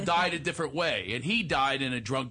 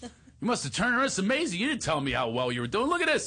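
high, gushing dad; excited proud father; 5 semitones higher than usual. Retold or imitated. Father showing his son the honor roll invite, excited. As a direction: marvel at it with mounting parental pride.

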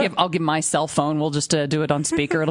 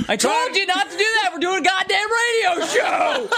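imitated angry yell; 12 semitones higher than usual. Co-host mimics dad scolding over radio show, angry mock yell. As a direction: yell it as an exasperated dad, hammed up. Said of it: "I heard you yell before".

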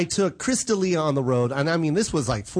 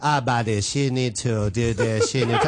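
Jamie Masada; 6 semitones lower than usual. Retold or imitated. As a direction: mimic a club owner's halting objections. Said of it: "going up to Jamie Masada".

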